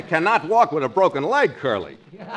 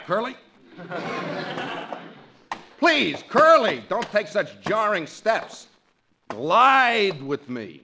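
fussy, drawn-out plea; 8 semitones higher than usual. Acted. Frankie fussing while being carried.

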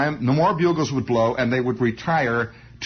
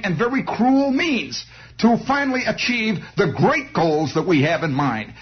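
higher-pitched speechifying, building higher; hammed-up zealot orator; 7 semitones higher than usual. Extremist justifying cruelty for a beautiful world, rising mock oratory. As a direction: swell into mock-idealistic oratory over music.

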